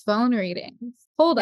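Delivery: incredulous. Retold or imitated. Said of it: "We're like".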